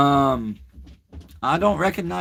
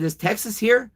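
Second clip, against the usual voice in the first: Is Texas here asked much higher, rising in dread; anxious question; 8 semitones higher than usual. Retold or imitated. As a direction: ask it pitched way up, scared of the answer. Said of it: "I looked at him and I said".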